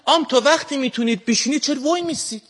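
put-on Shirazi accent. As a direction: speak like a laid-back man from Shiraz. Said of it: "سعی کردم امروز با لهجهٔ شیرازی صحبت کنم". (لهجهٔ شیرازی شل و کشیده)

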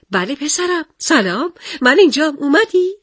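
high, eager mother's reply; surprised mother. Acted. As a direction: sing out sweetly to the son. Mother answering her son, surprised.

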